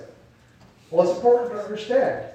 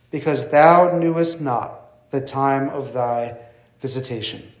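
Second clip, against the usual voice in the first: measured, emphatic Bible reading; scripture reading; 3 dB louder than usual. Acted. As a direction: read the verse out solemnly, pausing between phrases. Reads scripture aloud to congregation.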